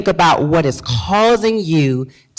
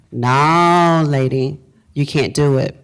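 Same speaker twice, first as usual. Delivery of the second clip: body talking back; 4 semitones lower, slower than usual. Acted. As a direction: draw out the no, then drop low. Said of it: "your body is telling you".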